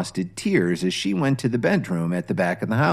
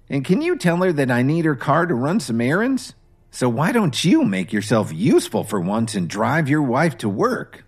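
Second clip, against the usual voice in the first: scoffing mother-in-law; 5 semitones higher than usual. Acted. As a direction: sneer it down at a lazy son-in-law. Dorothy orders Kevin around.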